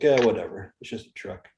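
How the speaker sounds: imitating a stone-cold guy's indifference; unfazed. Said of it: "unaffected, unfazed".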